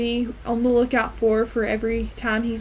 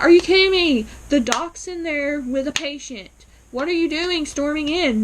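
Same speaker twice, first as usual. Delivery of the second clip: retold exasperated scolding, pitched up; indignant; 4 semitones higher than usual. Viewer scolding Elaine for interrupting the doctor, indignant. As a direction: tell her off in mild outrage. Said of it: "I was a little mad at Elaine for that".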